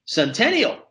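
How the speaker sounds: high, incredulous echo of the place name; amused disbelief. A narrator's reading. Man amazed at a visit to Centennial, amused disbelief. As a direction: toss it back as a disbelieving question. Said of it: "laughing with disbelief".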